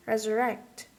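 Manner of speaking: "resurrect" with the last syllable, RECT, stressed; stress on final syllable. Shown as a demonstration. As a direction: lean on RECT at the end of "resurrect". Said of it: "First is the final syllable".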